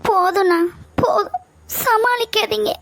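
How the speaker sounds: bitter laugh breaking into crying; laughing through tears. Acted. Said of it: "அழாத சத்யா". (கண்ணீருடன் கசந்த சிரிப்பு)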